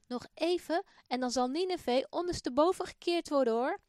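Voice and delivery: loud, high warning proclamation; prophet calling out. Acted. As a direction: cry the warning to the crowd. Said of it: "Hij hoort Jona roepen".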